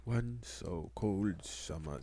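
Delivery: slow, hushed nature documentary narrator; trying out a slow British narrator voice; mock Attenborough narration. Testing himself as the next David Attenborough, slow narrator. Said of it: "See, I'm already fucking up".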